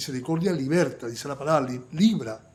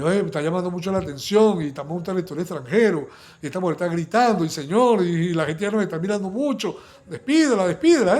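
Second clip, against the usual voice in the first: fast, louder, rising anxious pleading; anxious disciples; 2 semitones higher, 6 dB louder than usual. Acted. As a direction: hurry and worry, as if everyone is staring. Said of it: "como de angustiarse".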